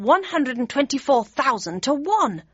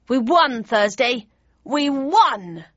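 excited; 3 semitones higher, 4 dB louder, slower than usual. A narrator's reading. Character celebrating victory.

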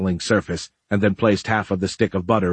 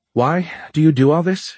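sharp, high demanding question; 8 semitones higher, 3 dB louder than usual. A narrator's reading. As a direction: demand it, exasperated. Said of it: "she demanded".

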